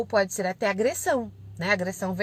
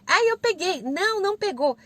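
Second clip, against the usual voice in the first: high, imitated kids' back-and-forth; squabbling children; 8 semitones higher than usual. Sisters arguing over a game of tag, imitated high squabble. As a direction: mimic little sisters contradicting each other, pitched up.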